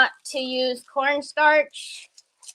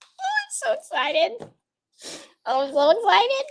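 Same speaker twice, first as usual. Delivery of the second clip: much higher, squealing oh I'm so excited; gushing excitement; 9 semitones higher than usual. Real, not acted. Greeting Becca about her new gel, high excited squeal. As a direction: let the delight spill over.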